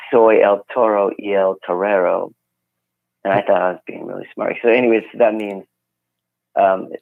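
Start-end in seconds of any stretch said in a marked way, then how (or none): 0.1-2.3 put-on clumsy English speaker's Spanish accent; an amateur's Spanish accent reciting his own poem; terrible Spanish accent. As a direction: recite it in proud but halting tourist Spanish accent. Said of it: "my terrible accent".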